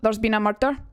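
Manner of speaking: cheesy Scottish TV-detective line; Scottish accent with strong R's. Shown as a demonstration. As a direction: lean on the R's, Scottish style. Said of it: "If you're wanting to do Scottish".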